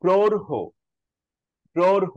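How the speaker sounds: প্রৌঢ় with a clear হো breath at the end; breathy ঢ়. Shown as a demonstration. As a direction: stress the puff on প্রৌঢ়. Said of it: "একটা হো আছে".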